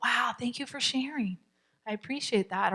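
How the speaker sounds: soft, sincere thanks; empathetic statement. Shown as a demonstration. Coach models thanking a frustrated child, softly empathetic. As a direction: gently acknowledge a frustrated child. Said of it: "another empathetic statement when they're all frustrated".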